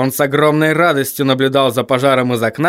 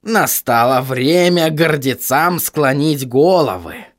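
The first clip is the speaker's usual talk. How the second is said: slow, musing character line; thoughtful; slower than usual. Acted. Korney muses that the proud must bow, thoughtful. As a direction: muse it slowly, half to oneself. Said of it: "задумчиво пробормотал он".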